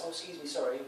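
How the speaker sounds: mock meek politeness; overly polite. Shown as a demonstration. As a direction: apologise daintily for intruding. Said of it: "it's like all politeness".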